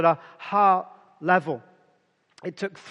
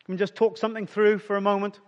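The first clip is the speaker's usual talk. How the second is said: gentle request; much faster than usual. Retold or imitated. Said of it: "Jesus says to Peter".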